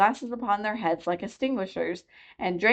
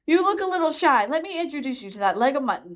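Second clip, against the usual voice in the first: Red Queen; 6 semitones higher than usual. A narrator's reading.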